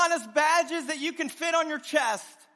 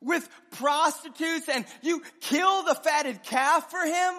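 raised, slow accusing voice; indignant older brother; 4 semitones higher, 4 dB louder than usual. Acted. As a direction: jab each word at the father. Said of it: "He says".

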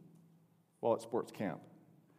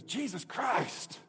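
slow, drawn-out, careless Jesus Christ; flippant curse; 6 semitones higher, much slower than usual. Retold or imitated. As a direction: toss it off like a bored kid. Kid swearing flippantly at camp.

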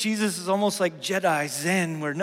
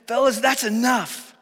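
slower, firm "Fellas, that's enough"; a hint of a stern teacher; mild rebuke; 2 semitones higher, 5 dB louder than usual. Jesus rebuking his disciples, a lightly voiced firm rebuke. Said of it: "Jesus was rebuking him, saying".

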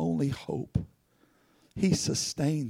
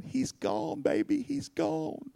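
high, slow wail of a grieving mother; imitating a sobbing mother, high and drawn out; weeping woman; 10 semitones higher, 7 dB quieter, slower than usual. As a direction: cry it out like a woman who just lost her child. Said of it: "I hear the woman going".

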